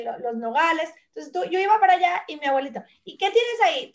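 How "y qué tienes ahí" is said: grandfather's voice. Retold or imitated. Voicing grandfather.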